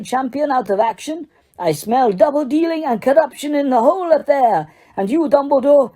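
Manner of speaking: a heated, hammered-out tirade; furious accusation. Acted. Karkaroff accusing Dumbledore of a plot, heated tirade. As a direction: rant at him, building scorn.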